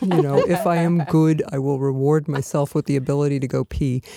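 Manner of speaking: a lightly voiced prim taskmaster; mock-stern, pompous self-talk; mock dutiful self-talk. Mocking her rigid workday rule to the hosts. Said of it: "I oftentimes think".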